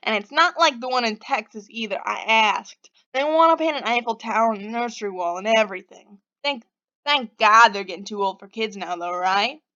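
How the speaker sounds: griping in a badly faked Boston accent; Denver. Stranger venting about his parents to Pixie, Boston accent. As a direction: complain away in amateur Bostonian. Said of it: "my terrible Boston accent".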